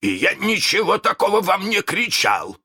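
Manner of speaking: high, insistent denial with a quiver; rattled, pitched well up; slight tremor. A narrator's reading. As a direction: protest with mild unease. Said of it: "с лёгкой дрожью".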